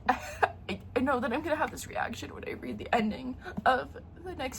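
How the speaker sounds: breathy laugh through the words. Real, not acted. Dreading the novella ending, laughing to viewers. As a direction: giggle it out, half whispered.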